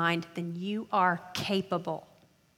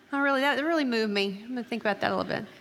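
mock-moved; 3 semitones higher, much faster than usual. Speaker mimicking a student reading a textbook, mock-moved. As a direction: toss it off as if deeply touched.

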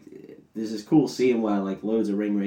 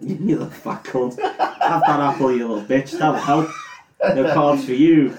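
laughing mock insult; 4 semitones higher, 5 dB louder than usual. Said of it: "About your fat shit".

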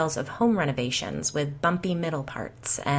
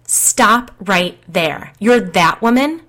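louder, higher, stretched-out exclaim; sudden recognition, called out louder; excited exclaim; 3 semitones higher, 8 dB louder, slower than usual. A narrator's reading. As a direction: stop her in surprise with a loud, slow start. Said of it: "the sidekick exclaimed".

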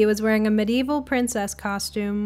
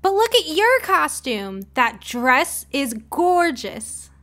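admiring; 5 semitones higher, slower than usual. Acted. Cindy admires dress.

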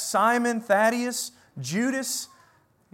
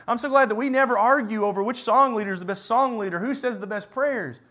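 tongue-in-cheek gladness; sarcastic. Shown as a demonstration. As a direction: say it with dry irony. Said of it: "I hope you can tell that I'm being sarcastic".

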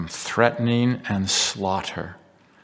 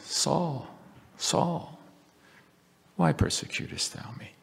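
tender voice; 8 semitones higher, 5 dB quieter than usual. Acted. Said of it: "I can't read those words in a tender enough voice".

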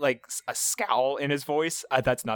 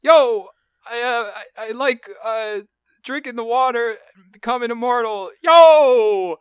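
high, whiny skater-dude yell; hammed-up high voice, bursting into a loud yo; Bam Margera impression; 9 semitones higher, 7 dB louder than usual. Friend imitating Bam Margera for a school radio spot, hammed-up impression. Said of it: "his impression of Bam Margera was just".

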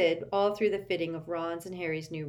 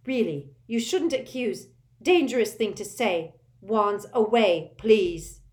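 loud, high panicky pleading, slowing on wands away; a frightened shopkeeper begging for calm; flustered fright; 5 semitones higher, 8 dB louder than usual. A narrator's reading. Madam Malkin pleading with the boys, loud and panicky. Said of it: "squealed and clutched at her heart".

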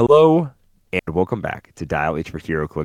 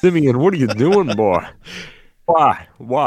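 laughing; 6 semitones higher, 5 dB louder than usual. Real, not acted. Teasing cohost's odd voice.

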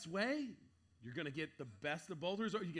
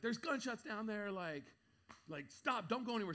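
urgent plea; 6 semitones higher than usual. Retold or imitated. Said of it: "I was like".

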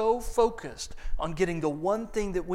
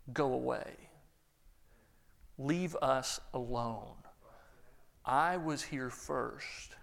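grumpy crowd member; 4 semitones lower, 6 dB quieter, slower than usual. Acted. Crowd refusing the friends.

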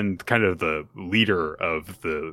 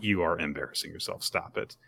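cool rebuke; 8 dB quieter than usual. Retold or imitated. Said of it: "is like".

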